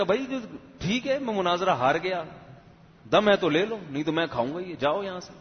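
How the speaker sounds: lightly voiced camel shooing them off; bullying camel. Camel grabs the bundle from ram and bull, mock bossy. Camel bullies the other two.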